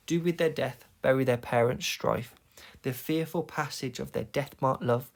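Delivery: "From forth the fatal loins" in regular weak-strong beats; rhythmic verse reading. Shown as a demonstration. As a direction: keep the metre audible from "From forth" onward. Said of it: "it helps to show you the rhythm".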